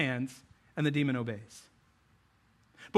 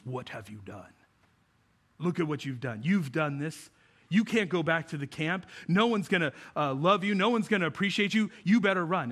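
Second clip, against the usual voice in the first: Scar. Retold or imitated. Scar accusing young Simba beside his father, lightly menacing. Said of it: "Scar gets down on his level and he goes".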